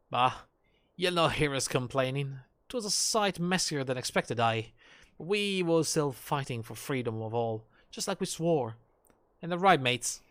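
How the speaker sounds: lightly voiced hearty comrade; a touch of plain-spoken fighter; loyal rough-and-ready soldier. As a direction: brush off the apology, rallying your mates.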